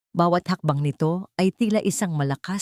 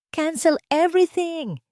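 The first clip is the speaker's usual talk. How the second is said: shouted order; 12 semitones higher than usual. A narrator's reading. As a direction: cut her off with a shout. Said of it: "sigaw niya".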